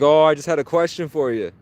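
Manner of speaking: high, loud, put-on innocence; mock-innocent reply. Caller answering an angry dispatcher, high mock-innocent. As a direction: lilt up high as if harmlessly asking.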